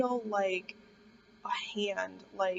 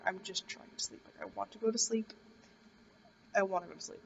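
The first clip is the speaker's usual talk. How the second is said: whispered pleading; 5 dB quieter than usual. Retold or imitated. Pleading to be left to sleep.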